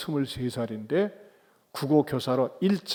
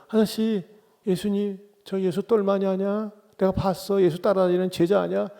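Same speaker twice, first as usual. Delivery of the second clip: put-on girl's voice; 4 semitones higher than usual. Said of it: "어떤 여자애가 이제".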